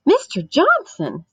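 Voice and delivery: high, loud shocked cry. A narrator's reading. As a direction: gasp his name out in shock. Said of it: "in a shocked voice".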